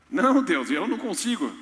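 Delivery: pleading Moses. Acted. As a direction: whine the excuse. Moses refusing again. (Moisés recusando, choramingando)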